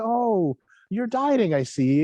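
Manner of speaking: mock the busybody colleague, lightly; a hint of a condescending coworker, pitched high; nosy coworker. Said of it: "she'd come around to your desk and she'd say".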